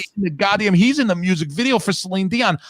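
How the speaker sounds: high, breathless fan rave, pitched well up; excited gushing. Retold or imitated. Podcaster reliving his Deadpool song discovery, excited and high. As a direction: gush like you just discovered the best song ever. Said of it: "I was like".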